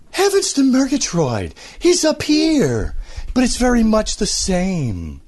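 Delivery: high, stretched-out cartoon lion voice; Snagglepuss. Voice actor demoing the cartoon lion's stretched words. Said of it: "a higher voiced version of Bert Lahr".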